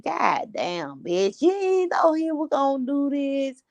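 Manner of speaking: mock disbelief, pitch jumping up after the curse; mock outburst. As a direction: act out reacting to a crime story. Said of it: "'cause I be like".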